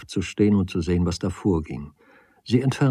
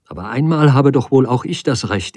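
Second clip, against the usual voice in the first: higher, emphatic self-defence; indignant; 4 semitones higher, 4 dB louder than usual. Acted. Woman claims right to hurt him back, indignant. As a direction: insist on your right.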